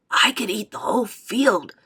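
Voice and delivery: relishing it with a grin; lightly voiced old man, tickled; delighted grandpa. A narrator's reading. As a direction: savour the idea happily. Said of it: "grinning with delight".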